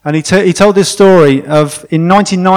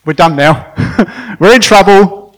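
mock dread. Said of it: "And R C thinks".

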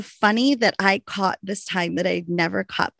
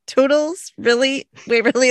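put-on higher, louder incredulous British-accent joke; mock disbelief over the radio; incredulous radio call; 5 semitones higher, 4 dB louder than usual. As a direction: the speaker radioing in, ribbing Waverly's British accent. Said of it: "she's like".

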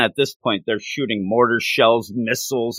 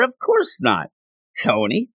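mock sneer. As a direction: spit the retort back. Wang Chu's trash talk.

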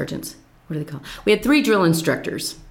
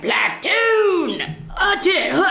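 mock drill call; 11 semitones higher, much slower than usual. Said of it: "she was like".

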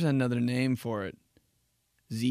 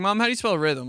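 put-on whiny kid; 8 semitones higher, 6 dB louder, faster than usual. Kid asking mom to spell.

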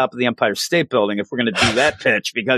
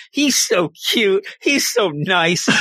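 slow, higher gush of adoration; smitten gushing; 5 semitones higher, slower than usual. Retold or imitated. Smitten girl about the boy she likes, slow gushing. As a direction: draw it out like a girl with a crush.

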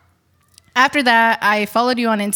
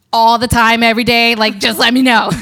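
mock overeager; 6 dB louder than usual. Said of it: "super cool".

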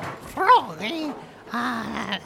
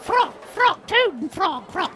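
put-on British accent. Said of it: "Let me get my British accent".

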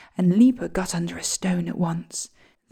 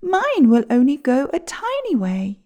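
sparrow voice; 6 semitones higher, 4 dB louder than usual. Acted.

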